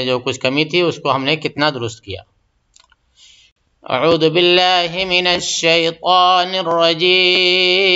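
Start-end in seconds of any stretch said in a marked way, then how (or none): 3.8-7.9 slow, drawn-out tajweed chant; Quran recitation. Shown as a demonstration. Teacher reciting for students, slow tajweed chant. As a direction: recite it slowly and melodically.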